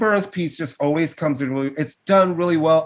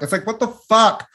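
higher, pleading what the fuck; venting at her teams; frustrated fan demanding answers; exasperated outburst; 7 semitones higher than usual. Real, not acted. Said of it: "I'm so frustrated".

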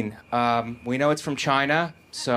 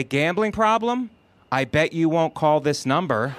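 taunting sign; 2 semitones higher than usual. Retold or imitated. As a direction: dare them like a needling sign. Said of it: "It should at least say".

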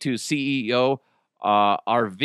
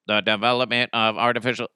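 Stephen Hawking voice; 3 semitones lower, faster than usual. Pretend. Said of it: "you want me to go".

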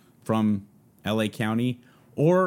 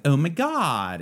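put-on higher-pitched Valley Girl exclamation; 5 semitones higher, slower than usual. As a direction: mimic a Valley Girl's stock line. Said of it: "called Valley Girl. And it was like".

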